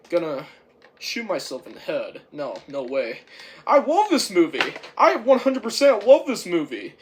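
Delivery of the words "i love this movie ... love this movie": high, loud gushing; emphatic enthusiasm. Real, not acted. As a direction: insist on it with full excitement. Insists they love the film.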